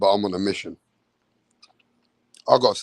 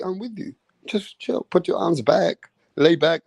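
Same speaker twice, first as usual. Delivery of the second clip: soothing referee; 4 semitones higher than usual. Retold or imitated. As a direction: play the ref gently calming a tired boxer. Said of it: "the referee's like".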